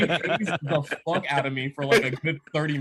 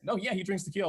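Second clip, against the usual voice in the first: higher, offhand imitation of the bartender; casual, like nothing; 5 semitones higher, 4 dB quieter, faster than usual. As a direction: toss it off as old news, pitched up. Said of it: "like nothing".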